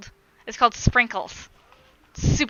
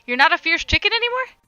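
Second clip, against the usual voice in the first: put-on reading to a toddler; 6 semitones higher, 8 dB louder than usual. Playful high voice to chat.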